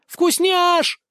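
high, loud call across the wind; shrill cry. Acted. Ustinya calling to her master mid-fall, loud high cry. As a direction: cry out his nickname as she flies at him. Goddess flying at him, calling.

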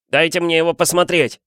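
demanding. A narrator's reading. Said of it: "потребовал Дадли".

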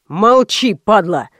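lightly voiced bass thug shutting him up; thick bass thug. A narrator's reading. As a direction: bark it like a heavy-set bandit. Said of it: "донёсся до меня густой бас".

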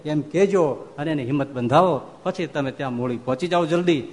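a hint of a gentle, loving master; Maharaj consoling. Storyteller voices Maharaj consoling.

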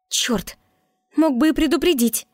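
high, sharp grumble at the guard; grumbling princess. A narrator's reading. Princess grumbles at the guard who smashed the door, high and irritated. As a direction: princess snaps in high-pitched annoyance. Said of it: "проворчала принцесса".

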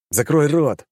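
sharp, loud, high snap; barked order. Acted. Hero snaps at the demon to shut up. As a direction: bark it to shut him up. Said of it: "рявкнул я".

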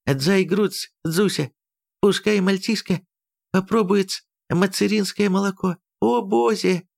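put-on high voice, Chinese accent; lisping Chinese-accented Russian. A narrator's reading.

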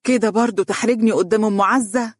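mildly indignant mother's rebuke; scolding. Acted. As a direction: scold your son for embarrassing you. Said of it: "قالت له مؤنبة".

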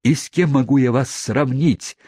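rising, eager suitor; ardent suitor. Acted. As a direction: press the question eagerly. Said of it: "возразил мистер Тапман".

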